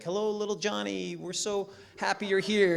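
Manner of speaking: high, sugary parent greeting over a microphone; sweet parent voice. Retold or imitated. Parent greeting son from fifty feet away, sugary and high. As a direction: coo at the new kid like a doting parent.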